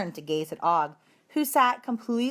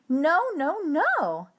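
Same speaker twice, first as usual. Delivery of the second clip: loud squeak; 9 semitones higher, 3 dB louder, much slower than usual. Acted. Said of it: "I squeaked loudly".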